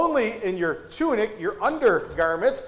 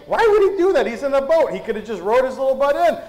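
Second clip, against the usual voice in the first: high, loud opening question, easing off; mock-baffled protest as an imagined listener; puzzled objection; 3 semitones higher, 4 dB louder than usual. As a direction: push back in disbelief, voice jumping up at first.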